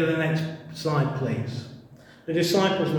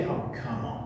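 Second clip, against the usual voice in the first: soft incredulous scoff then a breathy laugh; mock disbelief chuckle; 3 semitones higher, 4 dB quieter than usual. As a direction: brush off the silly advice with a laugh. Scoffing at the fishing advice.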